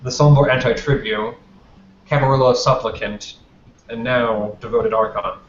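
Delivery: spaced-out ceremonial titles; lightly acted announcer's measured presenting; formal introduction. The Justicar presents the last Archon, Damien, measured formal announcement. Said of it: "last gestures to Damien".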